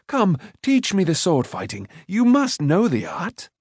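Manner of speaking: high-pitched eager plea; urging. A narrator's reading. Boy begging for sword lessons, urging. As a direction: press him keenly, voice lifted. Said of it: "Taran urged".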